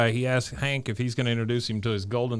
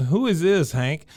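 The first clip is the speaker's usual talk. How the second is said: high mocking voice; 7 semitones higher than usual. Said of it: "he says".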